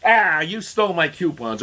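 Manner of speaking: high, loud mocking outburst; angry tantrum. Mocking the media as the coupon neighbor, outburst. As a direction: replay the neighbor's fit with scorn. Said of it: "the same attitude from the media".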